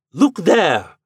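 loud, high insistence; insistent. A narrator's reading. Lodger forcing the landlady to look. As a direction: force her to look. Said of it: "he said, pointing at her".

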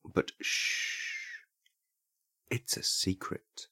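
whispered shh, slow and secretive; hushed secret. Pretend. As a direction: whisper it like a conspiracy. Pretend secret hush.

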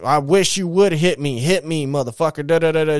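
daring him to hit her, heated; imitating a furious sister; sister going off. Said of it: "just going off".

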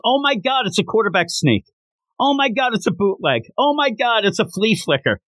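high excited play-by-play call; stadium announcer yell. Retold or imitated. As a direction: shout each play like a PA announcer.

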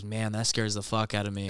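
low, softened retold remark; quiet, spooked grandma. Grandma admits fear after it gets quiet, hushed. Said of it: "a little quiet. My grandma's like".

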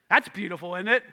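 dry sarcasm; a deadpan sarcastic jab. Shown as a demonstration. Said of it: "That's called sarcasm".

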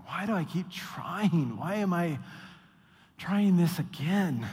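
slow, drawn-out sigh of a question; a worn-out believer asks himself why he keeps trying, slow and weary; weary inner voice. Retold or imitated. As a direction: let it sag, worn out by trying.

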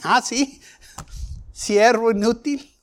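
a master's mock-stern scolding; mildly acted anger. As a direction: act out the displeased master rebuking his servant. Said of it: "Se enojó el Señor".

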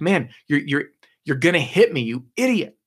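mock panic as it closes in; freaking out. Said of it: "So he freaks out".

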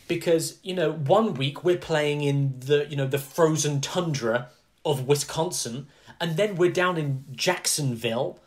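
lightly voiced complaining owner; mock American owner. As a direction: whine it like a fed-up team owner.

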